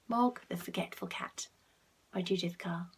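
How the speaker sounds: soft whispered title; bedtime whisper. A narrator's reading. Ending the bedtime story, soft whisper. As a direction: hush it as the book closes.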